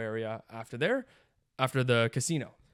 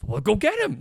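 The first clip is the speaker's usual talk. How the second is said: retold urging shout; 7 semitones higher, 5 dB louder than usual.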